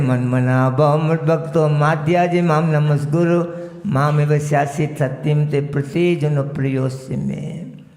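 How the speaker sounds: chant-like scripture recitation; verse recitation. Acted.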